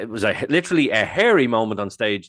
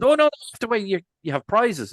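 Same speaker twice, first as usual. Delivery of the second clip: calling back; 12 semitones higher than usual. Retold or imitated.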